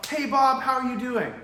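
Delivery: loud, high, upbeat greeting; match his excitement full on; matching high energy. Shown as a demonstration. Salesman mirroring an excited customer, loud and high. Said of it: "instantly match their energy".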